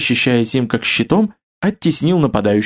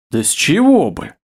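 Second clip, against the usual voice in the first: sincere surprise; 4 semitones higher than usual. Acted. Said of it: "искренне удивился Леонард".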